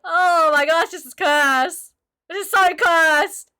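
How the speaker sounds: loud, slow laughing horror; cry-laugh at something cursed; laughing in disbelief. Real, not acted. Horrified laughing at cursed look.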